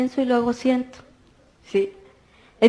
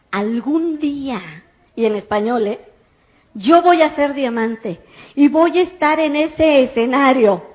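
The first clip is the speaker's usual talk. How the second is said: retold shouting. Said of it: "empiezo a gritar como loca".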